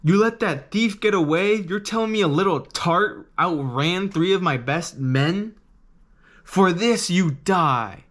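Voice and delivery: lightly voiced threatening pirate captain; Buggy's menacing voice. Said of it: "just listen to how he speaks".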